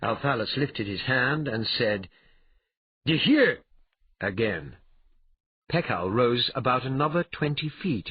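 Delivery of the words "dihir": loud, high, one-word cry; spell command. Acted. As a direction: fire off the magic word. Calling out a magic word.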